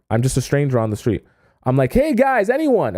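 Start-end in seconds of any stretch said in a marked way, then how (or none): 1.9-3.0 high-pitched call to passers-by; mock yelling. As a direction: call out high, without real volume. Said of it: "and I'm yelling".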